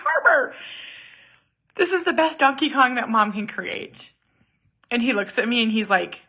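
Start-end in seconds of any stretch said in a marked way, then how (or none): 0.0-4.1 mock proud mom. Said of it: "I was like".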